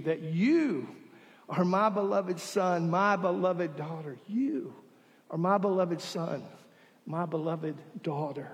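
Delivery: softly repeated blessing, fading to near quiet; tender blessing. Real, not acted. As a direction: hush down and tell them they are beloved.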